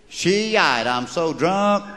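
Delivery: high Southern belle mating call; Georgia peach. Acted. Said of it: "mating call of the Georgia peach".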